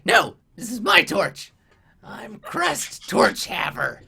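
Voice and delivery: high goblin proclaiming his new title; self-important goblin. Acted. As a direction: stake your claim in a high goblin voice. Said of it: "and then he's like".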